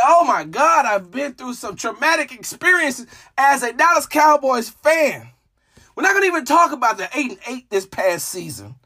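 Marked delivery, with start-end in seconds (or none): 0.1-5.3 high-pitched, dramatic self-quote; exasperated lament. Retold or imitated. Fan looking back on years of traumatic games, mildly hammed-up dismay. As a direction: wail a little over all the trauma. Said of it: "I'm like".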